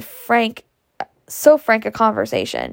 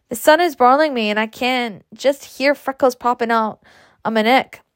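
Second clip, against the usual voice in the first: mildly impatient complaint. Acted. Daughter complains to Ma about the broiling sun, mildly impatient. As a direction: grumble with a touch of exasperation. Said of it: "she cried impatiently".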